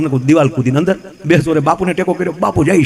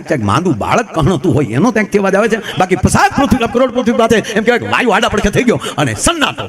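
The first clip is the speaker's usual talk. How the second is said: poetic night narration; 2 semitones higher than usual. A narrator's reading. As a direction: draw the listeners into the silence. Poetic description of silent night.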